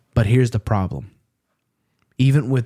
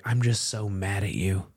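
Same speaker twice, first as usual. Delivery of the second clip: restrained anger; 7 dB quieter than usual. Retold or imitated. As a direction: say it softly, holding the anger in. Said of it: "I take, like, a deep breath".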